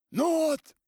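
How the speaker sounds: very high, loud offended cry. A narrator's reading. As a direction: cry out hurt. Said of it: "крикнул он обиженно".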